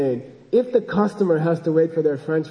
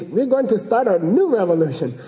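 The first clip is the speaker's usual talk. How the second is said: higher, swooping excited translation; imitated excitement; 4 semitones higher than usual. Translating the Bulgarian lady's phone news, mock excited. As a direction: pass on her excitement, lightly acted. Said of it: "Like, she's all excited".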